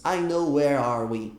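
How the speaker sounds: "I know where are we." said as the classic wrong version, slowly; mock learner error. Shown as a demonstration. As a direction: play the typical student mistake. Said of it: "erro até um pouco clássico".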